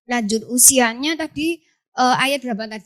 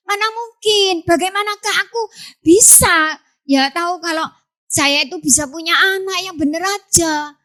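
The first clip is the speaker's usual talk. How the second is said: disbelief; 6 semitones higher than usual. Acted. Zakaria doubting, sing-song.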